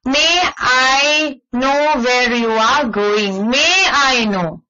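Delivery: slow, gentle asking; polite request. Shown as a demonstration. Teacher models a polite request, slow and gentle. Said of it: "Request means".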